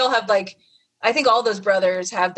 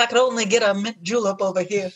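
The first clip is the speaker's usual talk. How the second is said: fake Louisville accent. Guest joining the Louisville mockery, mild fake Southern accent. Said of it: "put on, like, a New Orleans accent".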